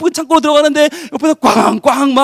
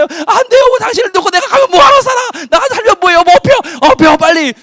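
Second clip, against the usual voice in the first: much higher, loud refusal to leave her; desperate pleading shout; 9 semitones higher, 4 dB louder than usual. Acted. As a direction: beg her not to give up. Husband refusing to leave wife.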